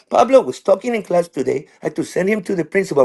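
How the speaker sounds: mock schoolteacher on the phone; science teacher. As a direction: imitate a teacher reporting to a parent. She just calls.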